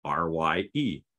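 "R Y E" letter by letter; each letter of "R Y E" named in turn; spelled out. Shown as a demonstration. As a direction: spell "R Y E" as three separate letters. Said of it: "don't look at how it's spelled".

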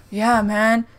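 lightly imitated dopey classmate, low and soft; understated impression of an oddball schoolmate; Napoleon Dynamite. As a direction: retell it lightly in the odd kid's voice. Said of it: "he totally sounded like that".

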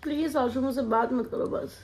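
mildly sulky, half-hearted tearful plea; pretend crying. To husband filming her, a mock-tearful plea. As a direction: play-act being upset, not really crying. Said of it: "रोते हुए भी इतने प्यार से".

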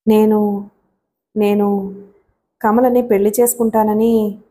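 drawn-out false starts with long pauses; halting confession. A narrator's reading. Raghu confessing his marriage plan to Shailaja, haltingly. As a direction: hesitate on the first word, then finish the sentence.

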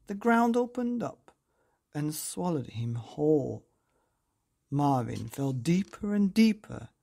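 put-on lively, sing-song storytelling voice for children; bedtime story narration. A narrator's reading. Narrator reading a picture book to children, lively and sing-song. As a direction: read it like tucking kids in.

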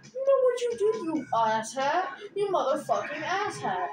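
indignant, scornful telling-off; angry confrontation. Real, not acted. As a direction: confront an absent friend with real anger. Angrily addressing the absent friend.

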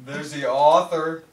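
slow, deliberate, laughing through it; slow it down as asked. Real, not acted. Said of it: "Talk slower".

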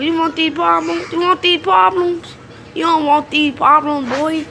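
taunting threat. Real, not acted. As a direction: rise into a trash-talk challenge. Taunting opponents.

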